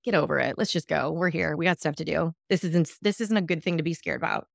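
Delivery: brushing it off, quick and low-key; mock impatient wave-off; dismissive. Parent waving off the scared kid, dismissive. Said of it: "You could be dismissive".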